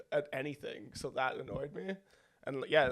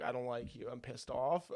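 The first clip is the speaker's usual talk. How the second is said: imitated calm. Retelling how he told somebody off, calm. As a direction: imitate calmly admitting you're pissed off. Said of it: "I'm just calmly being like".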